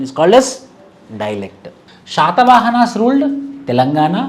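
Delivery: slow, spaced dictation for notes. Acted. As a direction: dictate each phrase slowly so students can write. (నెమ్మదిగా notes చెప్పడం)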